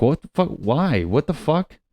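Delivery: high, wailing mock disbelief; hammed-up heartbreak, pitch leaping up; distraught dumped boyfriend. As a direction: plead like a freshly dumped boyfriend. Boyfriend reacts to being dumped.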